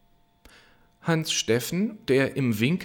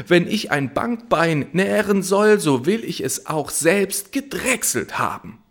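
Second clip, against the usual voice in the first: louder, higher angry call; shouting; 8 semitones higher, 5 dB louder than usual. Acted. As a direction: yell down at the lovers. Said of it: "schrie er". (laut rufend von oben)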